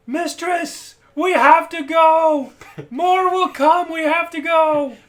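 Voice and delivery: loud, high, urgent yell to his mistress; drawn-out shouted plea to flee; beggar yelling. Acted. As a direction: call out a desperate warning across a fight. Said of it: "and yell to Oven".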